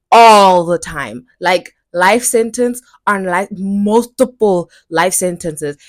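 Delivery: loud, slow, hammered demand; furious insistence on justice; emphatic. Real, not acted. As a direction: pound every word. Demanding max sentence.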